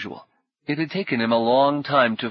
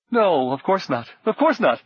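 nervous laugh; 8 semitones higher, 3 dB louder than usual. Acted. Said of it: "The man laughed, loudly and nervously".

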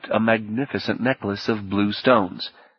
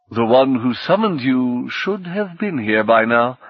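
grand host; 3 semitones higher than usual. Acted. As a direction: welcome them like a proud host. Atasco continues.

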